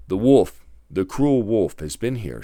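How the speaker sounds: loud, high cry of alarm; mother goose calling out her horror. A narrator's reading. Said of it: "she cried".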